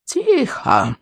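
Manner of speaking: put-on sharp old man's bark; barking hush. A narrator's reading. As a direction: bark for silence, old man voice. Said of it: "рявкнул старый сморчок". (резкий окрик старика)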